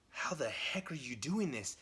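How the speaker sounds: breathy, half-whispered mock disbelief; stunned question. Goblin King to Norman as his sword is caught, mock stunned. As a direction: ask it in hushed, retold disbelief.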